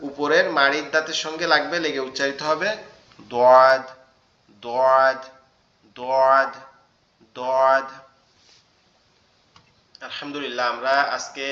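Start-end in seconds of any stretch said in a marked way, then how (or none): 3.3-7.9 দোয়াদ with a thick, heavy sound from the back of the tongue. Shown as a demonstration. Teacher showing the hardest letter, heavy thick demo. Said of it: "আওয়াজটা একটু, একটু মোটা মোটা হবে".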